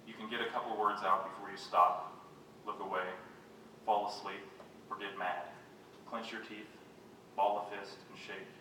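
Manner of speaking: measured poetry-reading voice; poem reading. Acted. Poet addresses mother after her strokes, measured recital. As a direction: read it as sombre verse, pausing between phrases.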